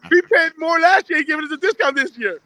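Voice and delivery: words bubbling with laughter; laughing voice. Real, not acted.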